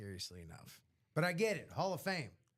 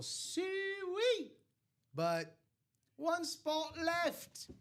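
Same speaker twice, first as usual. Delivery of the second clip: high, slow sing-song call; sweet calling; 11 semitones higher, much slower than usual. Acted. Host coaxing buyers to the last spot, sing-song. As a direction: coax them in slowly, sweetly.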